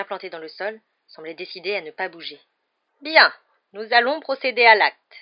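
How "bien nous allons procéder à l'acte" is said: high, loud, slow official's voice; quavering voice. A narrator's reading. Commission member announcing the execution, quavering. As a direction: quaver it out slowly and loudly. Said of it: "dit la voix chevrotante".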